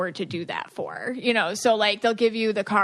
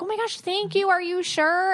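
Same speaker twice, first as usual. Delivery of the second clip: mock thrilled kid; 8 semitones higher than usual. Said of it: "You're like".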